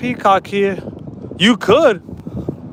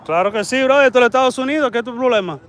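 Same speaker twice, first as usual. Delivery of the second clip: quick, pitched-up protest; excited arguing; 3 semitones higher, much faster than usual. Real, not acted. Arguing with a man who asked why he films, quick excited protest. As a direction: fire back fast at the man filming.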